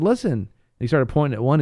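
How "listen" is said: raised voice. Retold or imitated. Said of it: "he said".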